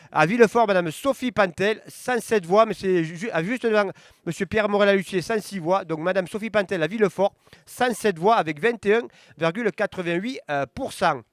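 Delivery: results read-out. Acted. Reading election results to viewers, steady announcer voice. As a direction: call each town, then the numbers. Reads commune results aloud.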